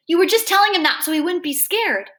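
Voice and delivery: hurt accusation. A narrator's reading. Boy says doctor lied to comfort Kevin, accusing. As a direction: press the accusation, pained.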